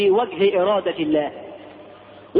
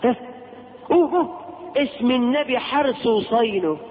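mother's quick charm; 3 semitones higher than usual. Retold or imitated. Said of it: "تقوم تقول بسرعة".

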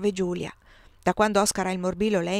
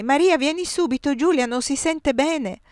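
high, louder summons; urgent shout; 6 semitones higher, 5 dB louder than usual. A narrator's reading. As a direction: call someone over in alarm.

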